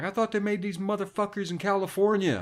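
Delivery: high, mock-baffled dad; lightly voiced fuming father; imitating angry dad.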